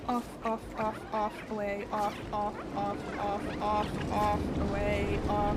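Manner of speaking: loud, firm repeated commands; scolding dog. Real, not acted. Streamer ordering dog off the bed, loud and firm. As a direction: bark it out again and again.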